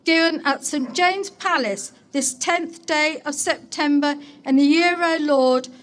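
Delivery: measured, ceremonial public reading; stately civic proclamation read; formal proclamation. Acted. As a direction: proclaim it with solemn dignity to the townsfolk. Mayor reads royal proclamation aloud.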